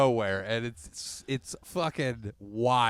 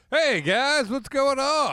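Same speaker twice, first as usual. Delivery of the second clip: casual robot; 13 semitones higher, 6 dB louder, slower than usual. Pretend. Robot voiced as casual dude.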